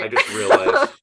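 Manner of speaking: high, loud sudden realization; surprised. Real, not acted.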